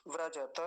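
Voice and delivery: व्रजत as vra-ja-ta; full syllables. Shown as a demonstration. Teacher repeating the correct form, full syllables. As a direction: leave the last ta of व्रजत open. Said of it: "ऐसा बोलेंगे".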